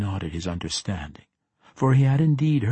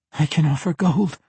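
higher, louder strained offer; through gritted teeth; 7 semitones higher, 5 dB louder than usual. A narrator's reading. Captive bargains at dagger point, through gritted teeth. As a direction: push it out high and loud through gritted teeth. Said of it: "through her gritted teeth".

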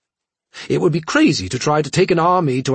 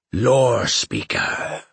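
slow, precise alien voice; each syllable placed with care; much slower than usual. Acted. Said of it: "very precisely".

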